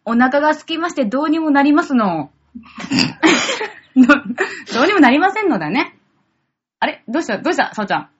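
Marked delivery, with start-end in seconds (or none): 0.0-6.0 playful ojousama speech; haughty rich girl japanese. Acted. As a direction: put on refined-lady airs. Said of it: "祝女ごっこしなきゃいけないんだよ". (お嬢様ごっこの口調)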